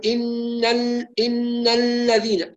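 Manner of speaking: الذين with the lam pulled into the nose, slow; wrong nasal lam. Shown as a demonstration. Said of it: "نسمع البعض يقول".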